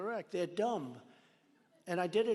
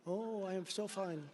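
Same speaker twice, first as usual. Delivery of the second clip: mock French accent; 5 dB quieter, slower than usual. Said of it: "Beautiful accent".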